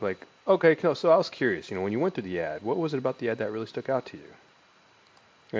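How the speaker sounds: pausing, stumbling on purpose; hesitant stumbling. Shown as a demonstration. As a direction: sound human and unsure. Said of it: "I'm pausing here. I'm kinda stumbling over my words".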